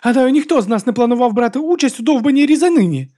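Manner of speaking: high loud angry shout; furious high shout back. A narrator's reading. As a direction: yell back at him in fury. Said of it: "закричала йому в відповідь".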